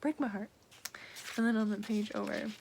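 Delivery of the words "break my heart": high gushing cry to a character; swooning. Retold or imitated. Gushing at Inej's reply, heartbroken swoon. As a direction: plead like she's broken your heart. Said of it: "And I'm like".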